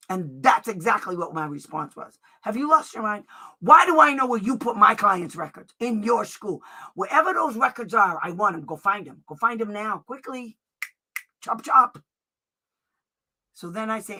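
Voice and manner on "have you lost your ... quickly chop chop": mildly heated, impatient comeback with loud peaks; half-mock scolding, ordering them to hurry; retold angry retort. Telling off school staff, mildly angry and impatient. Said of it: "I'm getting mad because that was actually said to me".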